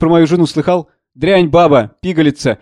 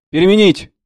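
higher, sharp command; barked order; 4 semitones higher than usual. A narrator's reading. Master orders the orderly to change it, sharp command. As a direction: bark it at the sleepy orderly.

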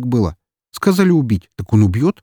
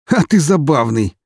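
quiet laugh; 6 semitones higher, 4 dB louder than usual. Acted. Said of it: "тихо расхохотался".

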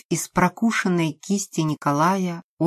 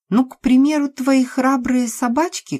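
high, loud sneering threat; mocking threat; 9 semitones higher, 5 dB louder than usual. Lena taunts Nastya with threats to her dogs, high and loud.

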